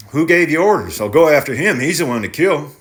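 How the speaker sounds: lightly voiced thoughtful farmer; tenant farmer voice. Tenant threatens.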